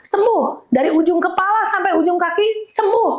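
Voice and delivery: high-pitched cry of command, little added volume; retold prayer shout. Wife praying over injured husband head to toe, retold shouted declaration. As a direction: re-enact calling out healing. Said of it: "Sambil teriak itu ya".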